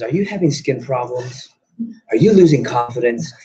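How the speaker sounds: lightly dramatised ad voiceover, stretched out; infomercial announcer. Retold or imitated. Acting out dramatic infomercial opening.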